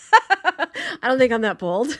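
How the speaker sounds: real amused, laughing voice; laughing admission. Real, not acted. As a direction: laugh your way through it. Laughing while admitting timidity.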